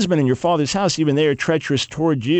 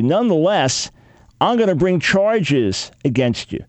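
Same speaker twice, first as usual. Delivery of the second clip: bold challenge to God; slower than usual. Retold or imitated. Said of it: "basically to say this".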